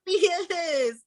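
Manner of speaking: slow, high disbelieving question; incredulous. Retold or imitated. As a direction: stretch it out in mock disbelief. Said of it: "Like, I was like".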